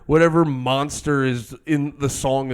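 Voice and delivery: loud, hammed-up complaint; comic tirade at full volume; ranting shout. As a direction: yell it like a worked-up fan. Ranting about spooky vocals.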